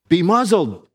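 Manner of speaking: lightly voiced stern Jesus; commanding rebuke. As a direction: bark out "Be muzzled" as a command. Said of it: "Jesus said".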